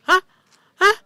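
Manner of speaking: retold startled double gasp of hah; shocked hah. Retelling the moment she saw the TikTok, loud shocked hah. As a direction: replay the jolt of disbelief, loud. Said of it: "Bukan kaget lagi".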